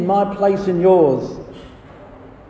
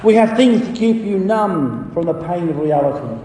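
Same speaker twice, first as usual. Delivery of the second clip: higher, lightly hawking sales patter; merchant calling out; 4 semitones higher than usual. Acted. Merchant tempting Christian in Vanity Fair, lightly calling out. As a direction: list the wares like a street seller. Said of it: "That was called out by the merchant".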